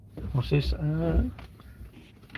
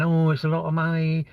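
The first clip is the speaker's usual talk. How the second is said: lightly put-on higher moan; mock whinging; 4 semitones higher than usual. LinkedIn crowd complaining about the money, mock whinging. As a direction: mimic a complainer in a raised pitch. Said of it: "they're all whinging about".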